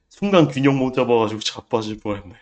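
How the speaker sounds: ordinary delivery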